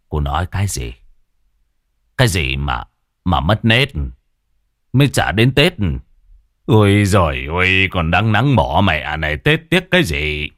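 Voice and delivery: grumpy old villager, mildly voiced; a hint of an old man, incredulous; startled old man. Old Cẩm questions Mai, lightly voiced grumpy old man. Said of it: "ông trợn mắt hỏi".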